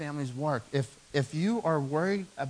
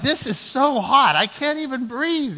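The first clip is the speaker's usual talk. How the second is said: louder, higher, slow hammed-up whine about the heat; mock complaining; 11 semitones higher, 9 dB louder, slower than usual. Husband moaning to wife about the heat, slow mock whine. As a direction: moan like you're melting on the tractor.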